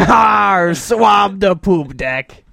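slow drawn-out pirate order. Pretend. Host drags out his pirate line, praised as natural. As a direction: stretch it like a lazy sea dog. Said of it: "You're a natural".

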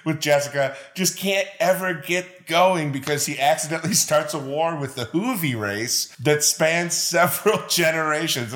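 real chuckles breaking into the recap; laughing while talking. Real, not acted. Co-host recaps a very funny episode, laughing through it. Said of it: "I'm laughing through all of this".

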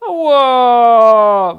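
long, high, loud howl; drawn-out cry of pain; pained yell. A narrator's reading. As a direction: yowl in sudden pain. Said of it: "wrzasnął znowu".

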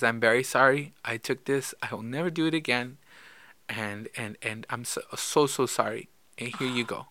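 soft, hushed imitation of a crying child; retold tearful apology. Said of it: "she started crying".

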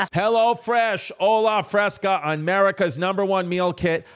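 upbeat, scripted sponsor read. Real, not acted. Host pitching meal kits to listeners, polished ad read. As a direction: sell it like a podcast host's ad.

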